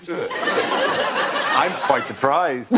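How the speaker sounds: slow, drawling Southern Belle "I'm quite the prize"; a laughing mock Southern Belle preen; Southern Belle accent. Host flirting with panel in mock Southern Belle accent. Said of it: "I love it when you do that accent".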